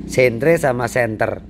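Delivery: slow careful "Sentre" then "center", British then American; British and American spellings. Shown as a demonstration. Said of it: "Center itu tulisannya sentry kalau British".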